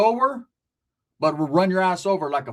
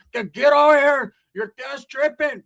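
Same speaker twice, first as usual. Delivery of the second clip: higher loud command, slowing; yelling tia; 6 semitones higher, 5 dB louder, slower than usual. Retold or imitated. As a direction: order him over like an aunt. Tia orders him over.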